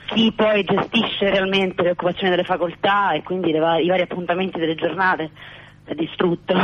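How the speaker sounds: breathless, between gasps; catching breath while talking. Real, not acted. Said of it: "Quindi scusate il fiatone".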